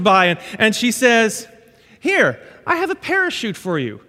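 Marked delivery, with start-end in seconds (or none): 2.0-4.0 lightly voiced chirpy stewardess. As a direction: play the eager flight attendant, a touch higher. Stewardess voiced in sermon story.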